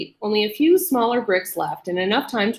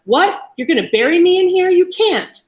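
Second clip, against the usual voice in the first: much higher, louder, fast panic; panicked disbelief; 10 semitones higher, 5 dB louder than usual. A narrator's reading. Captive realising he'll be buried, panicked. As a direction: blurt it out in rising panic. Daryl panicking at being walled in.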